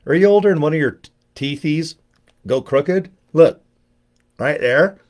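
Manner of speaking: put-on high, fast baby-talk question; mock baby voice about crooked teeth. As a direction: coo it like talking to a toddler.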